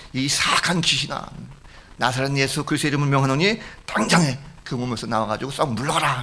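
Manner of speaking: mildly acted stern order to a demon; mock a commanding shout, without full volume; retold exorcism command. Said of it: "큰 소리를 쳤습니다".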